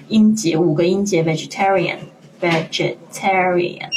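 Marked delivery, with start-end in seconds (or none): 1.2-3.9 vegetarian 五个音节逐一放慢读清; 把 vegetarian 一个音节一个音节慢慢念; syllables spelled out. Shown as a demonstration. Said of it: "注意一下vegetarian有几个这个音节". (慢读 vegetarian，五个音节清清楚楚)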